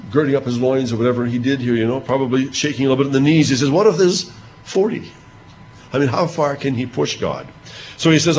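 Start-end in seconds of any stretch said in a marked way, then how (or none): 3.7-5.1 high, coaxing bargain; Abraham bargaining. Acted. Abraham haggling with God over the city, in a high coaxing voice. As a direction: nudge God down gently.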